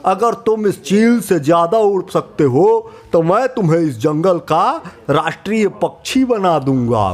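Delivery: a hint of a royal lion; lightly voiced lion king. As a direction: grant the wish like a pleased king. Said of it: "बोले महाराजा शेर सिंह".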